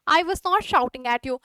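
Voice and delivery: शब्द-दर-शब्द धीमे; not पर हल्का ज़ोर, धीरे; slow dictation. Shown as a demonstration. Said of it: "teacher dictates slowly". (धीरे लिखवाना)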